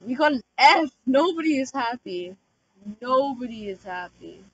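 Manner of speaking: loud, shocked outburst; dismayed shout. Real, not acted. Player shouting at the bad vault rating, dismayed. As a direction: yell at the bad grade.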